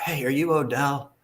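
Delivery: slow Southern drawl, a bit tipsy; drunk Southern accent. Retold or imitated. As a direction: ask it like a drunk Southerner at a hotel. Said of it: "deep Southern accent that I have".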